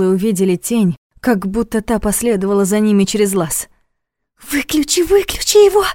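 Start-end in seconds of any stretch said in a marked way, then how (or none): 4.5-5.0 alarmed, rising higher; urgent, scared first call; frightened plea. A narrator's reading. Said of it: "испуганно прошептала Саша". 5.0-5.8 much higher, louder, terrified; panicked cry. A narrator's reading. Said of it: "испуганно прошептала Саша".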